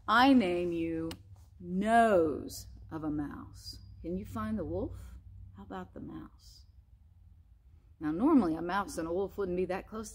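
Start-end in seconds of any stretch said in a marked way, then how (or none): 0.1-3.8 slow, solemn ceremony; solemn naming. Acted. Frog solemnly naming wolf. 5.5-6.6 soft whispered question; whispering. Real, not acted. Whispered aside to children.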